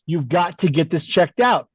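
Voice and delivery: lightly imitated New York accent; a friend's insistent urging in a hint of New York. Friend urging him to see a cardiologist, lightly imitated New York accent. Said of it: "In his New York accent, he would say".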